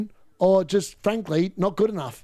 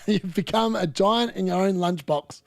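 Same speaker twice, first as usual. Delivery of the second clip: laughing. Real, not acted. Laughs while recalling saying.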